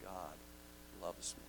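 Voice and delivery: soft and slow; a humbled, quiet confession; hushed awe. Acted. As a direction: let it sink in quietly. Personal awe.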